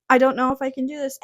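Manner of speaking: rushed, panicked repeat of her self-doubt; anxious panic. Retold or imitated. New temp panicking mid-shift, rushed anxious repeat. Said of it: "sometimes I was like".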